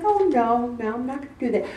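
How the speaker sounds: soft, unruffled no; calm refusal. Retold or imitated. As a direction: decline it mildly and quietly. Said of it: "she was so calm".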